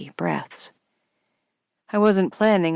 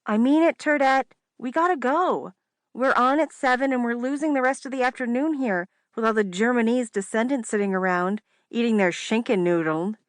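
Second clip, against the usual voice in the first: higher teasing sister voice; 7 semitones higher than usual. Acted. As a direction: needle her like a bossy sister.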